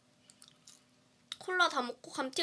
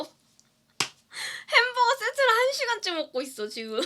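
high, loud, drawn-out laughing exclamation; laughing disbelief; 9 semitones higher, 5 dB louder, slower than usual. Real, not acted. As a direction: exclaim it slowly through real laughter. Amused at own slow eating.

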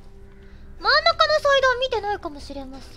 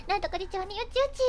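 put-on soft, low-key baby talk; 赤ちゃん言葉; 4 semitones lower, 9 dB quieter than usual. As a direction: coo quietly as if to an unborn baby. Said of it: "お腹の中にいる赤ちゃんに". (お腹の赤ちゃんに優しく話しかける赤ちゃん言葉)

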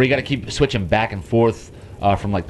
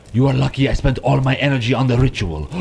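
a hint of a grand game villain; lightly voiced villain; 2 semitones lower than usual. Boss addressing the luchador, lightly voiced villain. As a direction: read it as a menacing boss, lightly.

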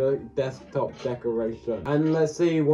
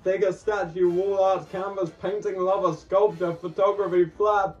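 dramatic build-up; 5 semitones higher than usual. Acted. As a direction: read the list like an epic trailer. Reads long product title dramatically.

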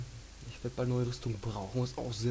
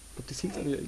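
whisper; faster than usual. Real, not acted. Whispered while hiding.

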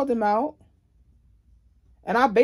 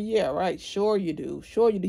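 imitating his sarcastic doubt; 5 dB quieter than usual. Retelling his reply to "I love myself", sarcastic. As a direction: scoff it back, mimicking him being dismissive. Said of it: "He's being real sarcastic with it".

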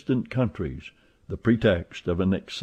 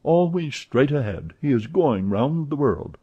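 a hint of an eager servant, higher; lightly voiced valet; 5 semitones higher than usual. Passepartout chatting to Fix, lightly voiced. Passepartout confides about master.

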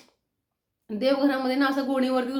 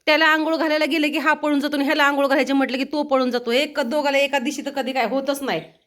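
ordinary talk

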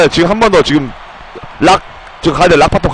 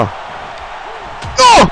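triumphant shout; 5 dB quieter, much slower than usual. Real, not acted. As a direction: cheer the hit. Big move lands in game.

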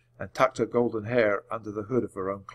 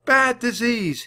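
hissed warning; 12 semitones higher, 5 dB louder, slower than usual. A narrator's reading. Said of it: "hissed Annie".

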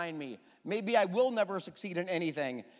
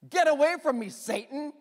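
louder, high and firm command; stern rebuke; 7 semitones higher, 5 dB louder than usual. Retold or imitated. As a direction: push him away with a sharp rebuke. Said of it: "Jesus turns and looks at Peter and says".

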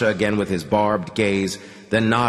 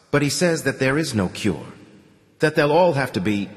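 higher-pitched, mildly flustered babble; babbling; 6 semitones higher than usual. A narrator's reading. Girl objects to the musician that no cure exists, babbling. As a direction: blurt it and leave it hanging. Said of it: "Sasha babbled".

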